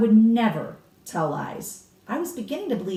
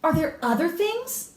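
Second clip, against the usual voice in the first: put-on young boy's question; 10 semitones higher, slower than usual. A narrator's reading. Boy eagerly asking grandmother.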